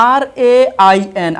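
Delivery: আর এ আই এন spelt out letter by letter; teacher spelling আর এ আই এন as its own chunk; ভেঙে ভেঙে বানান. Shown as a demonstration. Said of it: "আমরা ভেঙে ভেঙে বানান করবো". (আর এ আই এন অক্ষর ধরে ধরে আলাদা করে বলা)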